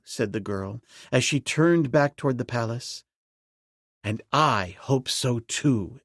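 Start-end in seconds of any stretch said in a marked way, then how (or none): 4.0-6.0 slow, firm exclamation; emphatic. A narrator's reading. Ape-man answering the girl, slow and emphatic. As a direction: say it slowly with weight. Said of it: "exclaimed Tarzan emphatically".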